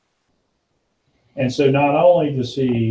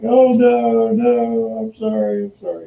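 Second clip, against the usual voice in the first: panicked sorry; 10 semitones higher, slower than usual. Retold or imitated. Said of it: "he's like".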